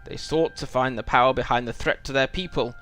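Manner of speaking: lightly voiced wise old wizard, grave; a hint of a stern old wizard; wizard dialogue read aloud. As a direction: read it like a solemn wizard giving warning. Reads quest text as the wizard.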